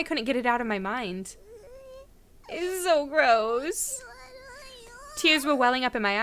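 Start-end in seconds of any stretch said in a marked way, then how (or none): 2.5-4.0 disgusted. Acted. Drawn out disgust.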